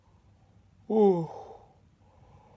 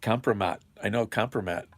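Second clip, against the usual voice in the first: amused; 2 semitones higher than usual. Real, not acted.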